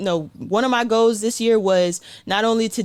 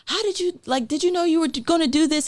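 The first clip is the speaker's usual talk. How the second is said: mimicking reporters; 8 semitones higher than usual.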